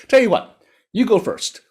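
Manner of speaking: high frog voice; high-pitched, confident little frog; crafty frog. A narrator's reading. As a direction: coax the tiger into going first. Frog sends tiger first.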